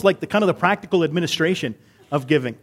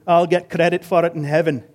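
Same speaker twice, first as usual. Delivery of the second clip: lightly voiced Scottish churchgoer; Scottish accent. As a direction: say it with an amateur Scottish lilt. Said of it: "That was my accent attempt".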